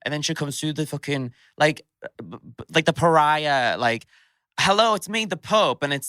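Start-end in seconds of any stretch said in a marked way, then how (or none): 4.6-5.8 high, sing-out hello; mock grand greeting. Mocking how huge a famous drag performer seems, a high grand greeting. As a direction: play a grand figure announcing themselves, pitched high.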